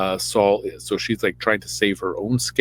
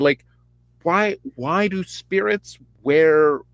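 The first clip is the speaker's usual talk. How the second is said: ordinary delivery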